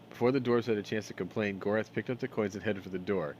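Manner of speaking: measured storybook reading; game text read as a story; story narration. A narrator's reading. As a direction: read the tale aloud, scene by scene.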